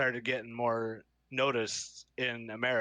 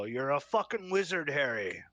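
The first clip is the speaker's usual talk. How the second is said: put-on drunk Hagrid. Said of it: "I would have Hagrid go".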